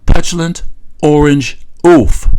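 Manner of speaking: each word of "Petulant orange oaf" spaced and stressed, slow; slow insulting emphasis. Shown as a demonstration. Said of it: "That's right".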